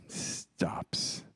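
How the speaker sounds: a hushed whisper for the big reveal. Acted. Pastor telling his wedding-day miracle, hushed whisper. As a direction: breathe the word out like a secret.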